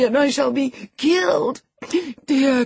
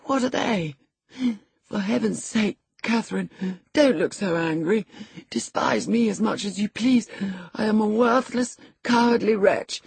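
high-pitched, anxious self-abasement; abject pleading; 6 semitones higher than usual. A narrator's reading. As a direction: plead with her, belittling yourself. Frightened boy begs angry cousin's forgiveness.

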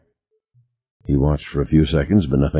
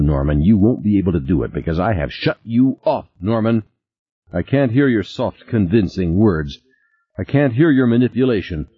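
shrill rant; 4 semitones higher than usual. Acted. Beth rants, shutting Norman off.

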